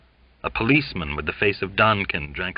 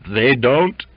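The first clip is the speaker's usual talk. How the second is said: gasping; 5 semitones higher, 7 dB louder than usual. Acted. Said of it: "gasping like a fish".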